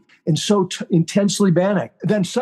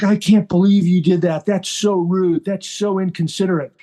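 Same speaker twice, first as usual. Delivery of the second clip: retold angry wife; 2 semitones higher than usual. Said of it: "And Maggie was furious".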